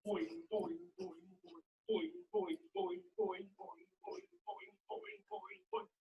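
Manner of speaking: high-pitched, soft bouncy boings; bouncing kangaroo sounds. Pretend. Leading everybody in a kangaroo hop, high-pitched boings. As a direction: play a little kangaroo hopping in high boings. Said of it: "Everybody kangaroo hop".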